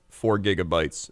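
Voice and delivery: low, slow deadpan answer; seemingly sarcastic. Retold or imitated. Clerk answering a customer's question literally, deadpan. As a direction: state the obvious with deadpan restraint. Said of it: "she thought I said it sarcastically".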